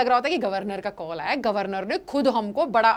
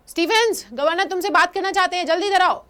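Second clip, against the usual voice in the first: calling loudly down the corridor, higher; retold shout; 5 semitones higher, 3 dB louder than usual. Officer calling Stephens to the governor, loud call. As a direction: yell for Stephens to hurry over. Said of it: "स्टीफन को जोर से आवाज लगाता है".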